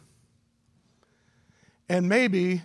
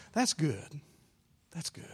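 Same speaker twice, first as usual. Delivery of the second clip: awed hush; 4 semitones lower, 12 dB quieter than usual. Retold or imitated. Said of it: "you just kinda go".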